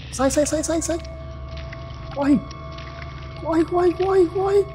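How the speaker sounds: while running. Real, not acted. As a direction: yell to flee, pitch climbing. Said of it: "Eu sei que tem que sair correndo". (gritando em pânico enquanto foge)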